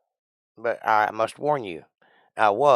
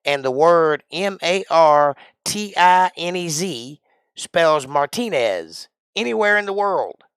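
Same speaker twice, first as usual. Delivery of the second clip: slow spelling; 6 semitones higher, 5 dB louder than usual. Acted. Spelling out a name.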